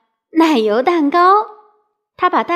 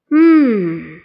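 panting grunt; 4 semitones lower, 4 dB louder than usual. A narrator's reading. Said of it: "喘着气".

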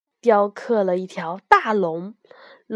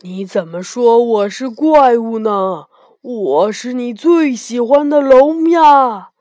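loud, wounded protest; aggrieved; 6 dB louder than usual. A narrator's reading. Dragon protesting to frightened Ye Gong, aggrieved. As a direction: protest as a hurt dragon, swelling on the last words. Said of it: "龙很委屈说".

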